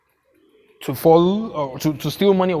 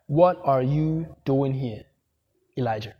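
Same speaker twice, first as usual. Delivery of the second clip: slow solemn God voice; 3 semitones lower than usual. Acted. God's voice in retold story.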